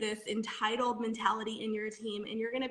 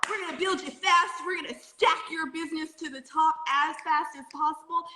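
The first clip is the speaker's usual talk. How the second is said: mock hype pitch; 4 semitones higher, 4 dB louder than usual. Mimicking a hype company pitch.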